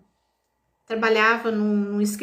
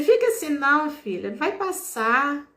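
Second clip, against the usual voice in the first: put-on mild old lady comfort; 4 semitones higher than usual. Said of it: "Aí ela falou assim".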